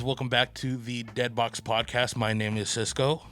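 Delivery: muffled, talking through a mask; through a face mask. Real, not acted. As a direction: speak with a mask over your mouth. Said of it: "what's going on with your, your face over there?".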